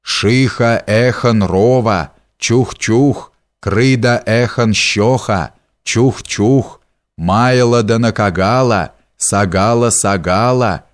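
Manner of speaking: slow, measured spell chant; an old sorcerer's understated incantation; muttered incantation. A narrator's reading. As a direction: intone the magic words slowly, syllable by syllable. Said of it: "бормоча себе под нос заклинания".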